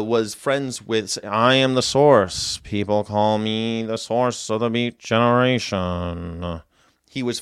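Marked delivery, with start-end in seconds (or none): 1.2-6.6 Burroughs voice. Retold or imitated. Voicing Burroughs again.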